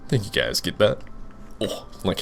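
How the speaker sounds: hiccups breaking the words; talking through hiccups after dinner; hiccuping. Real, not acted. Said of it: "hiccuping like crazy".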